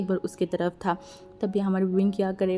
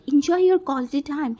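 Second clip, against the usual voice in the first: drawn out, louder and higher sarcasm; slow mocking parting line; 5 semitones higher, 5 dB louder, much slower than usual. A narrator's reading. Wangji leaving the room, taunting everyone, slow sarcastic. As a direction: let each word hang with a sneer.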